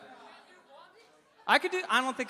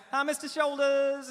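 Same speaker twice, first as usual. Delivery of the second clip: put-on higher-pitched Louisiana parish accent; 4 semitones higher than usual. Bank lady greeting a customer, Louisiana parish accent. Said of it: "I love that parish accent".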